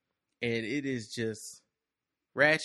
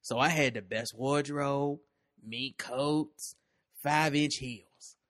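slow, drawn-out first-person storytelling; unhurried monologue with lingering pauses; story read in character; slower than usual. Acted. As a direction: tell it as her own story, savouring the phrase endings. Reads the woman's story aloud in character.

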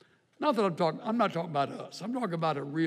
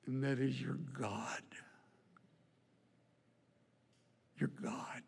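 whispered, much softer; 5 semitones lower, 13 dB quieter than usual. Real, not acted. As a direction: breathe it out as a hushed secret. Sermon climax, hushed.

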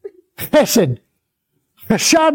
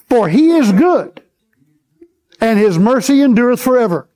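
declaring the verse; 2 semitones higher than usual. Acted. Preacher proclaiming the verse for the church to repeat.

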